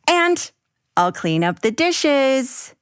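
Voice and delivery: put-on a little girl making her case; Abby as child. Abby convincing her mom, lightly voiced child.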